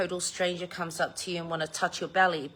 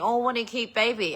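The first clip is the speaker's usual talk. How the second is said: higher, mocking sing-song of a gushing stranger; 4 semitones higher than usual. Mocking nosy strangers who coo over her grandbaby, higher mock gush. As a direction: sneer it like a nosy stranger cooing. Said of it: "these sorts of people just reach in and saying".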